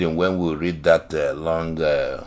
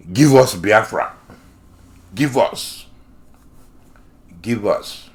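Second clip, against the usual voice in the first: mocking imitation of a demanding child; short demands, each falling off; childish little boy; 3 semitones higher, 4 dB louder than usual. Host mimicking the leader's old slogan, childish demanding. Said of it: "that's how he talks, like a child, a childish, uh, little boy".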